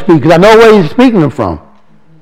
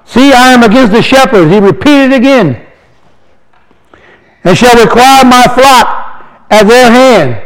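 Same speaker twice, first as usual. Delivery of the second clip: slow, solemn reading of scripture; 4 semitones higher than usual. Acted. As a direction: read the verse like a proclamation. Reads scripture aloud.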